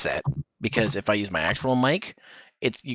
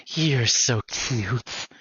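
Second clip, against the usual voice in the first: drawn-out, very slow and unhinged; a little crazy; much slower than usual. Shown as a demonstration. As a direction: stretch it out with a crazy edge. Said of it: "a little crazy hair".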